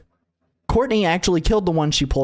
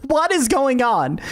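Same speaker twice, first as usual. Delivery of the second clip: higher, slowed, insistent question; urgent demand; 8 semitones higher, slower than usual. Retold or imitated. Dad on the phone demanding to know, urgent and drawn out. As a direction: press hard for an answer, drawn out.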